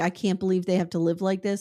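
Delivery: put-on tearful, crying voice. Retelling someone's words to another speaker, imitating someone crying. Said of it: "she would be crying and saying".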